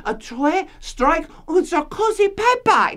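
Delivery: a playful fake French accent; mock French accent. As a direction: put on a jokey French accent for French listeners. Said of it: "translate it into the French for my Frenchy friends".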